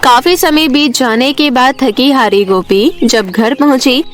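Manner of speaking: plain reading voice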